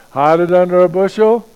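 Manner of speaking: loud, rising disbelieving question; incredulous. Shown as a demonstration. Preacher mocking hiding the light, loud incredulous question. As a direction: scoff at the very idea. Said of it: "or we hide it under a bushel".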